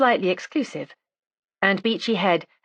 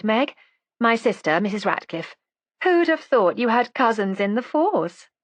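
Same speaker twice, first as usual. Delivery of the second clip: chatty, higher-pitched woman's character voice; lightly voiced drawling friend; 4 semitones higher than usual. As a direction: rattle on sociably as the pleasant drawler. Plays Miss Lethbridge in story.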